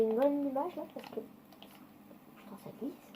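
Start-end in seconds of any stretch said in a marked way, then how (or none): 2.4-3.1 whispered alarm. Real, not acted. Bus sliding on wet road.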